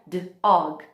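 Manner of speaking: D-OG split into "d" and "og"; segmented onset. Shown as a demonstration. Teacher showing smallest sound units, segmented. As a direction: say D-OG as first sound, pause, then the rest. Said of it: "chegar lá na menor unidade de som".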